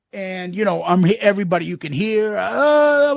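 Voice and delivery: ordinary talk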